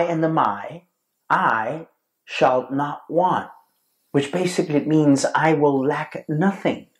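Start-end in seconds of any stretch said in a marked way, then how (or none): 1.3-3.5 slow, forceful I SHALL NOT WANT, each word set apart; emphatic. Acted. Preacher quotes David to his congregation, slow and emphatic. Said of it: "it's very forceful and it's very emphatic". 5.3-6.9 firm declaration, stress landing on NOTHING; emphatic. Acted. Preacher explains what David's words mean, emphatically. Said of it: "it's very forceful and it's very emphatic".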